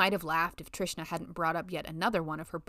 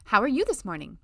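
sugary, placating politeness, a bit louder; placating secretary tone; 4 semitones higher, 7 dB louder than usual. Acted. Letty placating her sexist colleague Brian, in a sugary secretary tone. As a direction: soothe the sexist boss like a TV secretary. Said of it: "in the tone she'd heard secretaries ... placate their sexist bosses".

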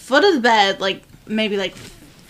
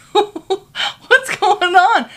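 very slow, high, drowsy voice; groggy husband; 8 semitones higher, much slower than usual. Retold or imitated. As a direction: stretch it out, barely awake. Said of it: "groggy repeat".

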